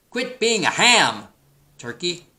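high, slow, scolding sheep; bleating sheep. A narrator's reading. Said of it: "bleated Sheep".

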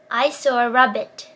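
slow, careful R in rabbit; slow English drill sentence; slow careful demo. Shown as a demonstration. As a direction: say it slowly, shaping each word. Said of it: "こんな文章を言っていきましょう".

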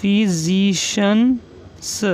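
फिजिशियंस drawn out very slowly; slow dictation. Shown as a demonstration. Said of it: "next है इसके अंदर हमारा फिजिशियंस".

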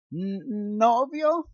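high, slow, stammered astonishment; stunned disbelief. Acted. Nina hearing Luke claim a boyfriend, stammering shock. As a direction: let the word catch in her throat.

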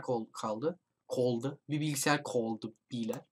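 hushed whisper while hiding; breathy hiding whisper. Real, not acted. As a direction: whisper so the monster won't hear.

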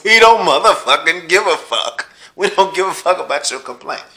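a real angry yell, every word hammered; furious shout. Real, not acted. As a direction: bellow it at the complainers. Ranting at fireworks complainers.

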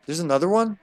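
a touch taken aback; surprised. Real, not acted. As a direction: ask it with rising disbelief. First surprise at another enemy.

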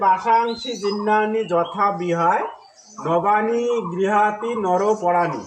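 slow, drawn-out chant of the Sanskrit verse; slow verse recitation. Shown as a demonstration. Teacher recites the Gita verse slowly to students, drawn-out chant. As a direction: recite each syllable slowly, like a verse read aloud. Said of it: "এইটা সঠিক উচ্চারণ নয়".

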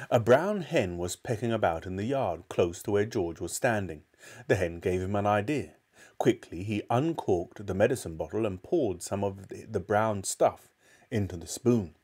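put-on measured children's storybook reading; story narration. A narrator's reading. Narrator telling of George's trouble, storytelling. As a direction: read the tale aloud with care.

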